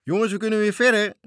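high, loud joyful cry; joyful shout. Acted. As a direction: cheer like sailors set free. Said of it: "riepen ze blij". (matrozen roepen blij naar de jongens)

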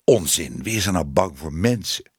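low, brusque dismissal; dismissive, scoffing. Acted. Man brushing off her fear of people, dismissive. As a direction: wave the fear away.

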